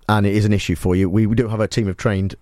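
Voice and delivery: low-pitched, mock-serious support announcement; earnest broadcaster's aftercare voice; solemn helpline notice. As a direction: offer listeners help with grave concern. Spoof helpline notice for listeners.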